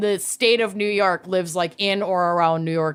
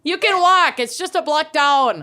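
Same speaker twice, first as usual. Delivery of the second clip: high teasing voice; 7 semitones higher than usual. Acted. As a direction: tease her, way up high. Teasing friend, high laugh.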